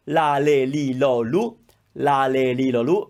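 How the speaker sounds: "la, le, li, lo, lu" with pure Italian vowels; very frontal L. Shown as a demonstration. Teacher leading the syllable drill, very frontal L. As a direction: chant "la, le, li, lo, lu" with tongue tip by the teeth. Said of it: "very frontal".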